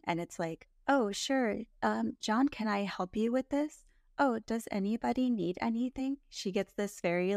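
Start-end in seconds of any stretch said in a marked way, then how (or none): 0.9-6.2 higher, flat robotic hostess voice; robotic monotone voice. Retold or imitated. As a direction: play it stiff and robotic, a little high. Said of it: "like, robotic voice".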